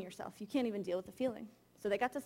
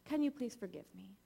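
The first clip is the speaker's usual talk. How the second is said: gentle apology; 5 dB quieter than usual. Retold or imitated. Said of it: "I tried to be, you know, the good mom thing".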